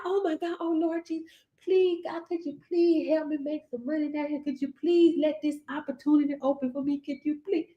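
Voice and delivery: soft, pleading whine to God; begging prayer. Retold or imitated. Preacher mocking a believer who begs God for money, soft and pleading. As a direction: beg God timidly for money.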